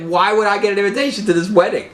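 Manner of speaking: high, quick bewildered voice; baffled hostage. Retold or imitated. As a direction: squeak it out in disbelief. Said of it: "And the guy's like".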